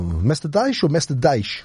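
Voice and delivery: DASH first as "daish", then as "daysh"; comparing two pronunciations. Shown as a demonstration. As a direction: weigh "daish" against "daysh" in Master Dash, slowly. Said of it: "thought we say Master Dash".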